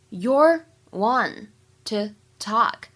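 very slow, a clear pause after each word; separated words for learners to repeat. Shown as a demonstration. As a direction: model it slowly, one word at a time. Teacher breaks line into words.

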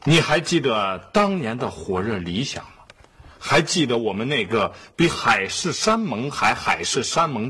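measured, declaimed letter reading; letter read aloud. Acted. Father reading a mysterious letter to the family, declaimed. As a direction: recite it phrase by phrase, pausing between.

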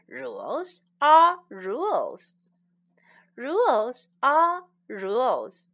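a strict rule-keeper, slow and loud; firm emphasis. Shown as a demonstration. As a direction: lay down the rule slowly and firmly. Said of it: "teacher drills the phrase".

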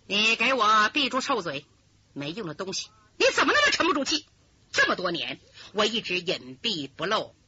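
elder sister berating her weak junior; cold scolding. Acted. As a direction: bite off the rebuke coldly. Schemer slaps and scolds her.

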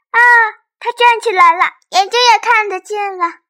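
high, loud gasp of surprise; startled. Acted. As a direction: blurt it out in shock. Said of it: "小翼龙吓了一大跳".

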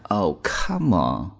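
Oh, come on, with the come rising in doubt; disbelieving tone. Shown as a demonstration. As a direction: say it like you don't buy it. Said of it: "大家注意这个语气啊".

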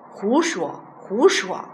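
shouted contradiction. A narrator's reading. Old Li disputing his friend's claim, mild shout. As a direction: call out to contradict him, understated. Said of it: "老李在一旁大叫".

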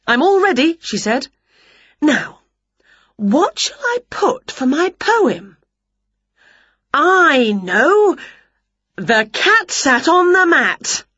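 high, eager and pleased; proud witch. A narrator's reading. Witch voiced in story.

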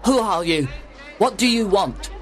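high, alarmed little man; frightened. A narrator's reading. Little man stopped by a stranger, frightened. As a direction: fire both questions in startled fear. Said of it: "turned around and looked frightened".

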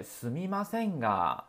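softly, with a gentle trailing が. Shown as a demonstration. Teacher showing students the right way: soft, gentle すみませんが. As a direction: let the が melt away softly. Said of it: "意要柔和一些".

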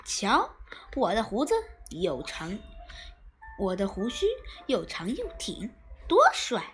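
不服气地炫耀，收尾高声; 扬着下巴显摆胡子. Acted. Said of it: "不服气地说". (不服气地炫耀)

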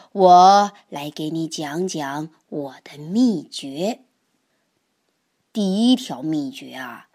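put-on a wise old toad confiding to his grandson; grandpa voice. Grandpa tells his secrets. (爷爷对小蛤蟆低声讲道理)

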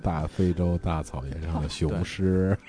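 slow, soft nature documentary narrator; lightly imitating a solemn wildlife narrator; 赵忠祥 documentary narration. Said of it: "赵忠祥又开始解说了".

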